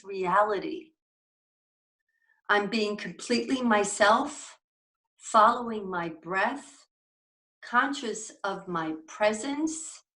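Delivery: slow, measured reading aloud; deliberate reading voice, phrase by phrase; mindful reading. Acted. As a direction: read it unhurriedly with thoughtful pauses. Reads a mindfulness passage aloud.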